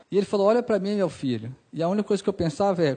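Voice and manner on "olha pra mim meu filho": soft, calm request; retold serene father. Serene sick father answering his upset son, softly composed. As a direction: keep it quiet and composed. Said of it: "normal, sereno".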